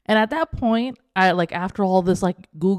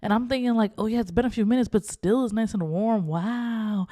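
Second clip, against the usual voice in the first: pleased murmur; 3 semitones higher than usual. Retold or imitated. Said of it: "I'm like".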